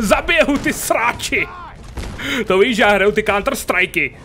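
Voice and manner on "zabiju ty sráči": pomalý, naštvaný řev; zařvi po nepříteli, pomalu; vzteklý výkřik. Real, not acted. Shooting at enemies in game. (hráč naštvaně křičí na nepřítele ve hře)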